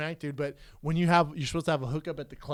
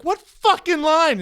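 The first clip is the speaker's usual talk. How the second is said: high, stretched-out indignant yell; real loud; 13 semitones higher, 10 dB louder, much slower than usual. Retold or imitated. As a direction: blurt it so the whole party turns. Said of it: "I said that real loud".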